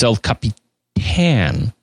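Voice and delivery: slow "El Capitan" stressed on the last syllable; "El Capitan" with a drawn-out final "tan"; accented final A. Shown as a demonstration. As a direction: draw out "El Capitan", landing on a "tan" as in pan. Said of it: "there is an accent on the A".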